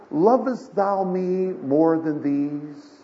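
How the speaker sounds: slow, drawn-out solemn question; Jesus asking Peter. Acted. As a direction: ask it slowly, stretching the words. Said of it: "And he asks him this".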